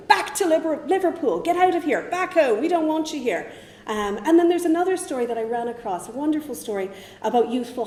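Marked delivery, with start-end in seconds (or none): 0.1-3.5 loud, raised voice barking them off; mock shouted order. Fianna boys ordering English Scouts out, shouting. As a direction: shout it like lads running off rivals. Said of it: "they were ordering them".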